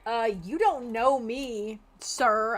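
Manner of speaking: sassy retort. Acted. Gamer sassing the pompous NPC, slow sass. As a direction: talk back with drawn-out sass.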